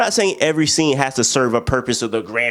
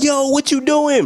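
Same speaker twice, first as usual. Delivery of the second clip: mock busting in; 14 semitones higher, slower than usual. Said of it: "He like".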